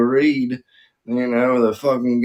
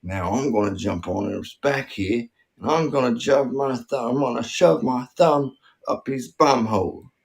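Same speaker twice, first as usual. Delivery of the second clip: mock Aussie wildlife presenter; Aussie crocodile wrangler. Wildlife host showing Billy a full-grown crocodile, mock Aussie presenter. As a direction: narrate the stunt in a put-on Australian accent.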